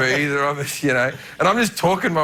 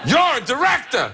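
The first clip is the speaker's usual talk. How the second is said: high, excited Pacino impression with laughter breaking in; hammed-up Pacino; 8 semitones higher than usual. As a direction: gush like a theatrical Pacino. Pacino insisting he's a director.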